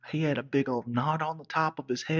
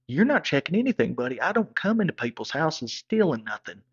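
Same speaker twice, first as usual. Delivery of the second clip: defiant; 3 semitones higher, 4 dB louder than usual. Retold or imitated. Retold standoff with her father.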